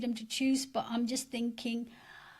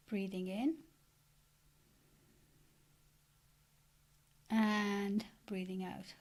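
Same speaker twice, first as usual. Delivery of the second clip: softened, unhurried meditation guidance; guided meditation. Acted. Meditation leader settling listeners into their seats, gently guiding. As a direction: ease listeners into relaxing with long pauses.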